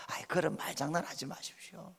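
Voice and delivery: 소리를 확 낮춰 툴툴대듯; 나직하게 내뱉는 불평 시늉; 시큰둥한 핀잔 흉내. Retold or imitated. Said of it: "이게 아브라함의 반응이었어요". (못 믿겠다는 투로 작게)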